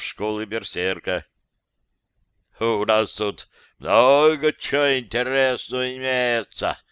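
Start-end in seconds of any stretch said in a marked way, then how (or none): 2.6-6.8 mild, slightly louder excuse-making tone; understated sheepish sales pitch; justifying. Acted. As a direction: talk it up to cover the embarrassment. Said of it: "оправдательной речи".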